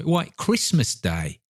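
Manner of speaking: slow, high, obvious answer; high-pitched boyish wonder; astonished boy. Acted. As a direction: say it as a lad amazed anyone could ask.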